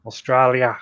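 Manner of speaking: Australian accent slipping into South African; failed Australian accent. Shown as a demonstration. Host has a go at sounding Australian, botched Australian accent. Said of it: "That was South African".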